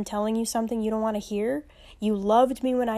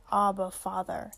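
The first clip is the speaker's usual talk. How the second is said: soft tender cry; 2 semitones lower, 3 dB quieter than usual. Shown as a demonstration. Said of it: "that we might cry out".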